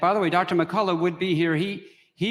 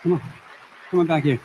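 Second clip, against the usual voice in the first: yelling across the room; much faster than usual. Real, not acted. Calling speakers back to stage.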